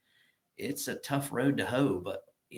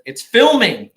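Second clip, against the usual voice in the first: put-on excited kid; 11 semitones higher, 16 dB louder, slower than usual. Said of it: "he runs up with".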